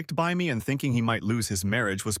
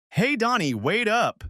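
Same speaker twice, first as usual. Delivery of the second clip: much higher, louder call across the yard; 10 semitones higher, 4 dB louder, slower than usual. A narrator's reading. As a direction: call to him from a distance. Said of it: "she called out".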